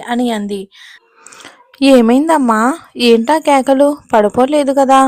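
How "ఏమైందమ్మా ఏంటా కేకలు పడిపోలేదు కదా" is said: higher, louder anxious questions to his mother; worried son. Acted. Son checking on his mother after her cries, alarmed and loud. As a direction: rush in alarmed, fearing she fell.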